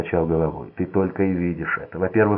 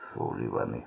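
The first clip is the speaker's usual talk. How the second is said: hiss; 10 semitones lower, 10 dB quieter than usual. A narrator's reading. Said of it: "прошипел Макс".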